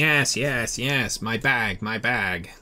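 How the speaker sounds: panicked butler grabbing for his bag; flustered butler. Acted. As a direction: fuss anxiously over the lost bag. Butler frantic about his bag.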